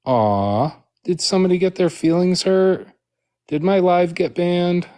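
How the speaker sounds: high mock-pitying coo. Real, not acted. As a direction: coo at them with fake pity. Mocking streamer's reporting foes.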